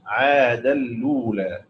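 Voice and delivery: slow عاد الأولى as "aadalula"; recitation like Qalun. Shown as a demonstration. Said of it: "مثل قالون".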